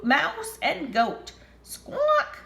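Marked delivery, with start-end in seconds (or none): 1.6-2.4 high shrieking squawk; chicken squawk. Acted. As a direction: squawk like a hen. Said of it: "said Chicken".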